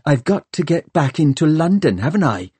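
angry rant. A narrator's reading. Hester blames Tom for stopping her revenge, angry. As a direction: rant at him with bitter exasperation.

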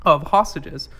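choking mid-sentence; choking while talking. Real, not acted. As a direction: talk through a choke. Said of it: "choking on my mouth while I was trying to talk".

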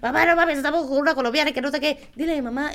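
high, loud mock phone call; imitated excited phone call. Drunk friend calls his mom, mock excitement.

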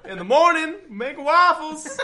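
high, slow, laughing donkey voice. Pretend. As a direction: play the cartoon donkey, drawn out. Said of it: "Can you do your donkey impression".

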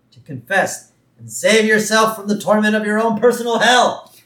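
building from measured to loud, high-pitched exhortation; mock sermon rising to a climax; impassioned preacher. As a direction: imitate a reverend working up to a fervent plea. Acting the reverend's sermon, urging confession.

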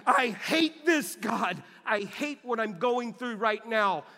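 David pouring out his anger to God, loud; David's raw lament. Retold or imitated. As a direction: cry out to God like a psalm of complaint. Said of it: "a guy named David who said stuff like that".

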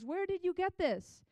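mildly acted high-pitched amazement; astonished question. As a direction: imitate an amazed mother-in-law asking. Voices Naomi's astonished question to Ruth.

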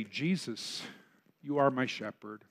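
gentle, hushed devotion; soft prayer. Acted. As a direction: speak it as a quiet personal prayer. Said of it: "you need to pray".

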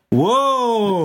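drawn-out pretend wow; mock amazed whoa. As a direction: show them the reaction. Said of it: "you're both gonna go".

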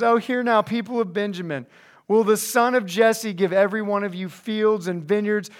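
mild mock whine; lightly hammed-up self-pitying complaint; whining. Preacher reads King Saul complaining to his servants, mildly whining. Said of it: "he's gonna start to whine".

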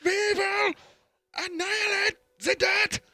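robot voice. Pretend. Roomba voice bit.

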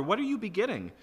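high, accusing question to the father; indignant challenge. Acted. Pot challenging its maker.

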